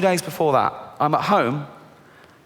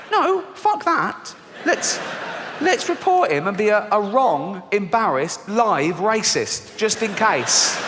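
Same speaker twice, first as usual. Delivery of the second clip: high, slow, drawn-out rant; high frantic voice; 5 semitones higher, much slower than usual. Acted. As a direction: plead it frantically. Fearful voice ranting.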